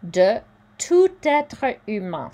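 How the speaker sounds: De tout être humain with tout linked into être; careful French liaison on tout être. Shown as a demonstration. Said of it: "there's a liaison".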